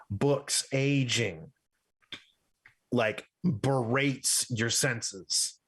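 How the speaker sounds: slow, drawn-out descriptive narration; game master's scene setting. Acted. Game master revealing a grand library to the players, scene setting. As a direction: linger on each item in the list.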